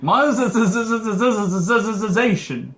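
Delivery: slow, buzzing drawn-out monetization; stretched-out word. Pretend. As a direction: drag it out with buzzing zs.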